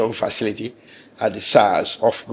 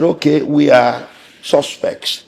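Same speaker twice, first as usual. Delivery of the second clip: raised voice; 5 semitones higher, 7 dB louder, slower than usual. Retold or imitated. Retold plea to the magistrate.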